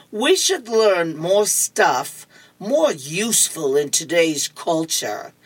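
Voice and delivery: slow, lightly voiced pupil; comic-strip schoolboy. Curtis raising his hand to his teacher, lightly voiced pupil. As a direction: lightly play a kid making his case slowly.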